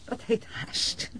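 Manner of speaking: slow breathy laugh through the words; scoffing laugh. Acted. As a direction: laugh off his modesty, slowly. Wife scoffs at his modesty.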